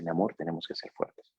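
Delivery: soft, gentle words to a wife; a husband softly telling his wife their baby died. Retold or imitated. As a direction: hold her hand and tell her quietly. Husband holds wife's hand, tells.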